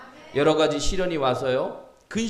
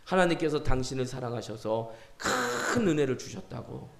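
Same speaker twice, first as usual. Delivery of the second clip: lightly softened pastoral counsel; gentle exhortation; 2 semitones lower than usual. Retold or imitated. Pastor counselling a tearful believer after prayer, gentle exhortation. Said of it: "제가 그분에게 권면했어요".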